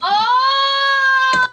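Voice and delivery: sudden loud cry; shout. Real, not acted. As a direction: yelp it out loud. Sudden outburst during quiz game.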